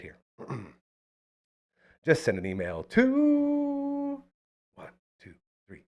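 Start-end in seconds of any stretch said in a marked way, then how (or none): 2.0-5.8 auto-tune voice. Acted. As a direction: sing the email through auto-tune. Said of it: "voice changer, the auto-tune".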